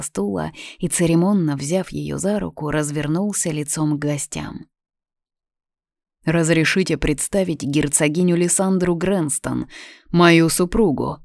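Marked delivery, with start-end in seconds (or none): 6.3-11.2 solemn announcement. Acted. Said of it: "торжественно произнёс Эрик".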